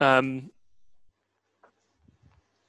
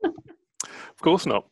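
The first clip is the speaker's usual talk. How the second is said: sly drawl; 5 semitones higher, much slower than usual. Acted.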